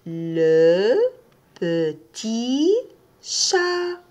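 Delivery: teacher spells out le petit chat word by word; slow model phrase. Shown as a demonstration. Teacher models a phrase for learners, word by word. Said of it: "Est-ce que vous entendez I quand je dis petit?".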